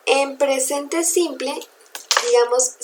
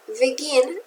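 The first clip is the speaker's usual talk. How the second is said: "begin" stressed on its last syllable, be-GIN; 4 dB quieter than usual. Shown as a demonstration. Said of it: "En la última". ("begin" con acento en la última sílaba)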